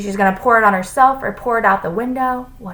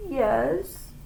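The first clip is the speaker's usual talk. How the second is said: small, high, soft voice; meek; 7 semitones higher, 6 dB quieter than usual. A narrator's reading. Pupil to his scolding teacher, meek. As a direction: answer meekly and softly. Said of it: "Todd said meekly".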